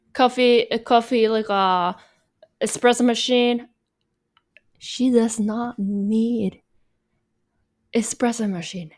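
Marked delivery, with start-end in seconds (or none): 4.8-8.9 slow, emphatic She does not need; stress on NOT. Acted. Telling viewers what she doesn't need, emphatic. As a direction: lean hard on does not. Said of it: "I can't stress this enough".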